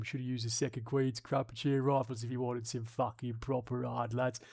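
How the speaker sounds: lightly voiced London geezer accent; a hint of a London gangster accent. Reading a comment in a light London geezer accent. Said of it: "going for a bit of a Barry the Baptist".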